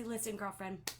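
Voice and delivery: excited shout out. Shown as a demonstration. Leader telling a consultant her sales rank, thrilled and loud. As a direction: cheer like she just won. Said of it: "I share that excitement".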